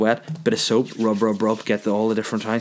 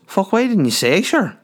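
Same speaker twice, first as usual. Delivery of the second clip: much higher, exclaiming country cabbie; country taxi driver; 10 semitones higher, 4 dB louder than usual. Retold or imitated. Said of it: "that's country folk".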